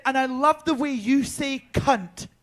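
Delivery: lightly voiced impression, slow and drawn out; slow, savoured celebrity impression; RuPaul. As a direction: imitate an admiring star, lingering on the words. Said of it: "she sounded just like her".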